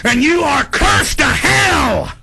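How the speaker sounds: high, shouting angry tirade; furious rant. Real, not acted. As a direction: rage at them, building. Escalating rant at the system.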